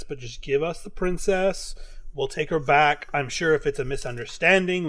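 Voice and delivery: soft, low peacemaker voice; calm and soothing. Acted. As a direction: talk them down gently. Moonshadow calming the griffins.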